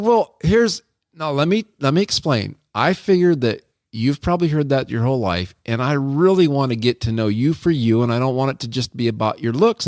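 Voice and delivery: defensive explaining. Retold or imitated. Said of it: "defensive mode".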